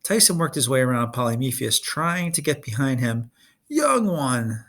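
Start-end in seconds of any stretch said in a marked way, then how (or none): 3.7-4.6 calling out. Acted. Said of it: "the older Cyclops called".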